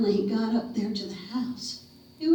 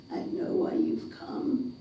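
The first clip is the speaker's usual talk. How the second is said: a hint of a tearful old lady; 10 semitones higher, 5 dB quieter than usual. Grieving old mother speaks.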